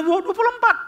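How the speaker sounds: high, loud protest; arguing seller. Retold or imitated. Seller insists to the buyer, high loud protest. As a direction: jump up high to insist on your price. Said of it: "Si penjual mengatakan".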